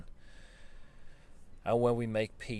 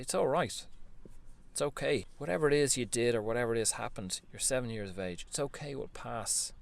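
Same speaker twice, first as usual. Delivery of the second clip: gentle reassurance. Pretend. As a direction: comfort a hurt child. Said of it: "look at that seven-year-old and say".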